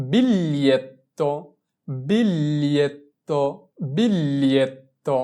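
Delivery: slow model "বিলিয়েত্তো" with a long L glide and held double T; gli pronounced as L. Shown as a demonstration. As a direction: draw out "বিলিয়েত্তো" for learners, L in place of G. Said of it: "আমরা জি কে এল এ ধরে উচ্চারণ করব".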